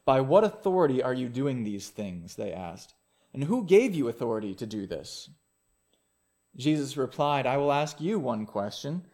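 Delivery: measured Bible reading to the congregation; scripture reading. Acted. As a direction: read the passage steadily and clearly. Reads the Gospel passage aloud.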